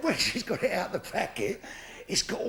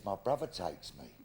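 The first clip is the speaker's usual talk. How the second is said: village idiot; 8 dB quieter than usual. Retold or imitated. The village idiot answering directions, low and dull. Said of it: "I always get the village idiot".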